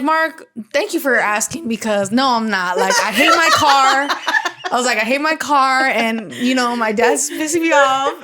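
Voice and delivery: slow, laughing whine about her car; half-laughing vent to a kind boss; laughing complaint. Retold or imitated. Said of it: "and I'm like".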